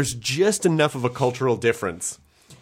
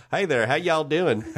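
a hint of folksy Southern twang; 3 semitones higher than usual. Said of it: "a drawl down there".

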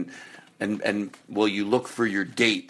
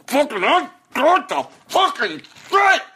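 shrieking, much higher victory yell; triumphant yell; 3 dB louder than usual. Pretend. Urging listener to shout in triumph, a shrieking yell. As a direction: scream it like you finally won.

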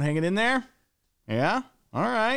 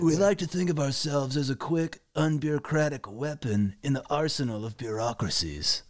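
Spicoli voice; 3 semitones lower than usual. Acted. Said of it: "read it one more time".

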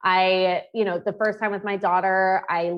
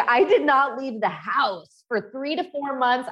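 normal talking voice

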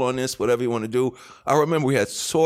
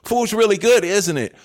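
awkward; 6 semitones higher, 6 dB louder than usual. Retold or imitated. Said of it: "he didn't know what to say".

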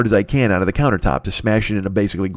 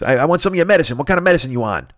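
neighbor Lou; 5 semitones higher, faster than usual. Retold or imitated. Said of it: "He goes".

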